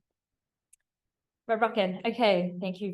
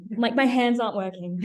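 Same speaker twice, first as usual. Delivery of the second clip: laughing; 7 dB louder than usual. Real, not acted. Flustered by slide failure.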